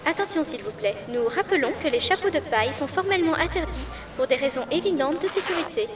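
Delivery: high tannoy voice over speakers; boarding call on the public address; airport announcement. Acted.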